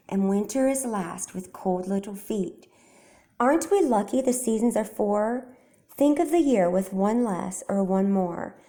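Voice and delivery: a gentle, rhythmic reading of verse; poem recitation. A narrator's reading. Frederick recites his poem to the mice, gently rhythmic. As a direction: carry the rhyme lightly and evenly. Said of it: "as if from a stage".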